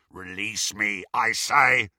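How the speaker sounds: rasping werewolf demand. A narrator's reading. Greyback demanding that Bellatrix free him, rasping. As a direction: rasp out the demand. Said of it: "rasped Greyback".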